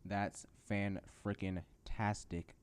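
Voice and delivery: slow, spaced-out sarcasm; deadpan sarcasm, syllables pulled apart; sarcastic. Real, not acted. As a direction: drag out each chunk sarcastically. Mock-cheerful about job rejection.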